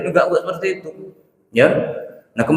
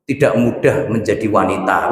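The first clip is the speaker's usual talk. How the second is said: mock caption read; 5 semitones lower than usual. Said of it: "buat status".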